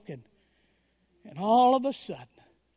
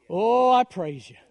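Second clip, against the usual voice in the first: louder, slower, swelling cry of praise; 6 dB louder than usual. Retold or imitated. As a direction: let it ring out in the empty church. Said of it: "all of a sudden the louder it got".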